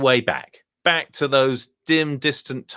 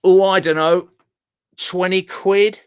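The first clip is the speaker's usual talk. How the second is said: owner voice; 6 semitones higher, 4 dB louder than usual. Acted. Owner names a price.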